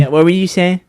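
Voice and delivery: mock Tyson popping up behind someone; Mike Tyson. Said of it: "when Tyson used to do those interviews".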